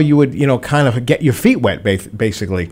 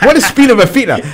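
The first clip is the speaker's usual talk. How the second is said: high, loud, baffled "What is spina bifida?"; acting stunned at the news; confused disbelief; 11 semitones higher, 5 dB louder, faster than usual. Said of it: "I'm like".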